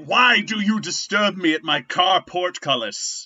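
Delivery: mock pompous stranger. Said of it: "he's like".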